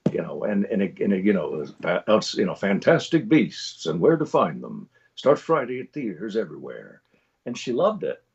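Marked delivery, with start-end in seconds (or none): 2.5-7.0 conversational trailer read. Shown as a demonstration. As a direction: announce the film title unhurriedly. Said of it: "much more conversational, much less trailer guy".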